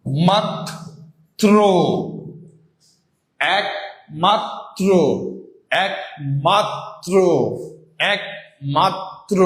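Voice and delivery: "একমাত্র" broken slowly into æk, mat, tro with gaps; syllable-by-syllable pronunciation. Shown as a demonstration. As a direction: model "একমাত্র" very slowly, open æ, each syllable alone. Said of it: "উচ্চারণটা হবে এইরকম ভাবে".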